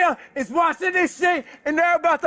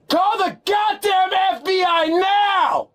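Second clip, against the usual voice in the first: angry shout; 3 semitones higher, slower than usual. Real, not acted. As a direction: demand it at full volume. Demanding the FBI.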